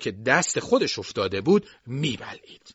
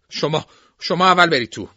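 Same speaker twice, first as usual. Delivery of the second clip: stammered, higher and louder offer; hesitant invitation; 6 semitones higher, 7 dB louder than usual. A narrator's reading. Stepping aside at the door to let others in first, hesitant. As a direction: stumble on the first word, then insist.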